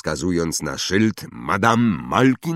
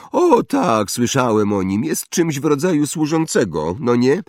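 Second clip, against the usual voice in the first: high, loud bragging schoolboy; spoiled boasting boy; 8 semitones higher, 5 dB louder than usual. Acted. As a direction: show off like a rich brat. Draco sneering. (chłopiec przechwala się, wysoko i głośno)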